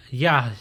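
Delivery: "ya" closing into a y glide; "ya" ending on a closing motion; closed syllable. Shown as a demonstration. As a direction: close "ya" off like "yai". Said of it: "for the closed syllable".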